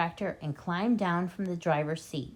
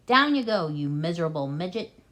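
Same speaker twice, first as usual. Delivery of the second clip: nasty; 4 dB louder than usual. Acted. Bean ordering nastily.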